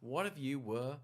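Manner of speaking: soft, very slow, drawn-out suggestion; hushed director. Retold or imitated. Director tactfully reining in an energetic actor, hushed. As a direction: put it to them slowly and softly.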